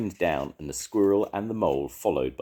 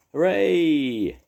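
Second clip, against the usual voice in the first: high, loud cheer; 12 semitones higher, 7 dB louder than usual. A narrator's reading. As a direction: cheer the little bird on. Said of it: "cheered the mole".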